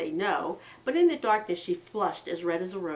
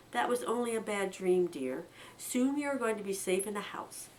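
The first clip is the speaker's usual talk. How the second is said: soothing; 3 semitones higher than usual. Acted. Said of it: "his mother soothed him".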